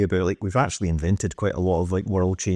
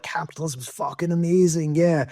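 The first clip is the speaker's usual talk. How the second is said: higher, cheesy salesman pitch for capitalism; sarcastic booster voice, pitched up; mock propaganda voice; 6 semitones higher than usual. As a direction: ham up a gushing Russian convert. Mocking Western propaganda's message.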